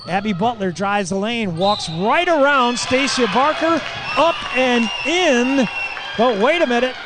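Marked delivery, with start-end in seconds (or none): 1.6-6.9 excited radio call of a layup and a charge; excited play call. Real, not acted. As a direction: ride the rush of the play to the basket. Big play called live.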